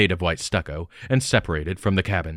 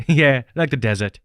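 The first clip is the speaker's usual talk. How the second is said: light chuckle, echoing his words, higher and louder; chuckling; 6 semitones higher, 3 dB louder than usual. Acted. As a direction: laugh it off, amused at the old joke. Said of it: "she chuckled".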